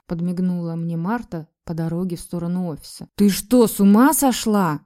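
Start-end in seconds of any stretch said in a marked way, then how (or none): 3.2-4.8 louder indignant outburst. A narrator's reading. Lera to a friend suggesting an affair, indignant. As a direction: brush it off, offended. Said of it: "возмутилась я".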